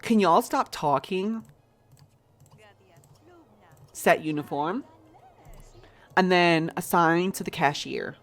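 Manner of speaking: a put-on American accent while running the store; chatty fake American accent, lightly done. Streamer managing her game store for chat, in an American accent. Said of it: "I'm done with the American accent".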